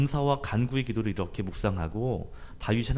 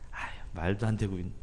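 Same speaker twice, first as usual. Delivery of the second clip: scoffing; 3 semitones lower, 6 dB quieter than usual. Retold or imitated. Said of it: "어이없다는 듯이 성경에는 웃었다라고".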